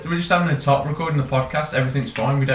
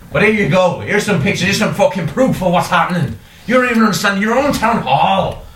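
raised, insistent Irish rant; Irish accent; 4 semitones higher than usual. Pretend. Detective showing proof on his phone, insistent Irish accent. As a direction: plead your case in an exasperated Irish accent. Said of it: "do an Irish accent".

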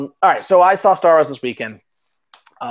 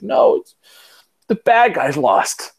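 son's voice; 5 semitones higher, 3 dB louder, slower than usual. Retold or imitated. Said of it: "He's like".

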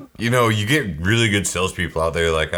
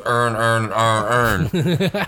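put-on Baltimore accent; 2 semitones higher, much slower than usual. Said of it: "the guy from Baltimore tried to say it".

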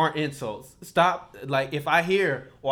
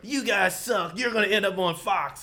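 mocking critics; 8 semitones higher, 3 dB louder than usual. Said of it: "quoting critics".

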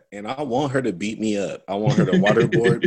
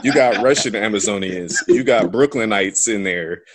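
laughing while talking; 4 dB louder than usual. Real, not acted. Mocking movie accents.

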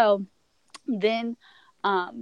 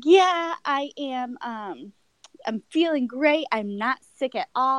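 chipper self-quote; 5 semitones higher than usual. Retold or imitated. Quoting herself to doctor.

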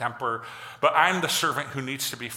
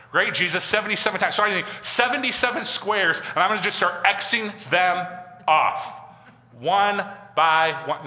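raised voice, slowing down as the count goes; mock eager tallying; 4 semitones higher, 4 dB louder than usual. Preacher playing someone crossing off seventy-seven squares, mock eagerness. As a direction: play a literal scorekeeper, drawing out the ending.

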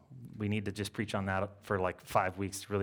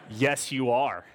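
laughing; 5 dB louder, slower than usual. Real, not acted. Jokes about the band.

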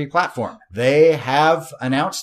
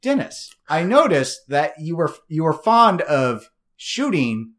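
high polite mock voice; 5 semitones higher than usual. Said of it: "it'd be like".

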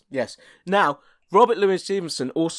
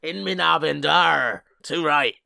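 hammy pirate growl. Acted. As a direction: play the old sea dog. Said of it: "Long John Silver".

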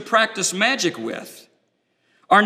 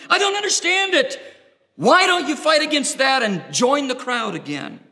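incredulous friend; 5 semitones higher than usual. Acted. Friends challenging a believer, high incredulous scoffing. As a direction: sound baffled that they believe this. Unbelieving friends questioning your faith.

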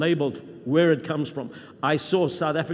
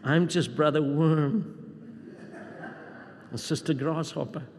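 low, whiny falsely humble voice; whining voice; 3 semitones lower, 7 dB quieter than usual. Retold or imitated. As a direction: whine it like a self-pitying churchgoer. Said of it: "they speak with this whining voice".

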